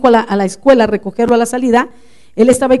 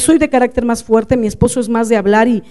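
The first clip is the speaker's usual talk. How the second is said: ordinary talk, nothing marked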